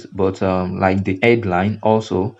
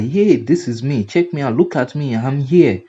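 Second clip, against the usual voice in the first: voiced flyer calling out; 4 semitones higher than usual. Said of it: "that is reaching out to you".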